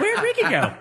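laughing through the question; giggling, voice jumps up. Real, not acted. Repeats question while laughing.

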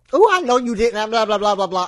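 high, loud mock of a rude lady; hammed-up mimic of a huffy stranger; mocking shout. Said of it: "She's like".

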